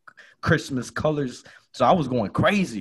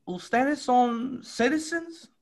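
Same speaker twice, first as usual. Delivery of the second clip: high, slow officer's question in Spanish; border agent; 13 semitones higher, slower than usual. Retold or imitated. Border agent questioning the car, slow high officer voice. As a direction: play the stern agent asking.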